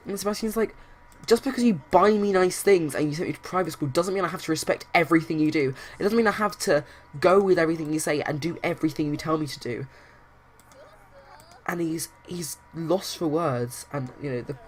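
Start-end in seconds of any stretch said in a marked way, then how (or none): 1.3-9.9 louder, heated son talking back; indignant retort. Acted. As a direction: argue back in acted indignation. Son argues back at father.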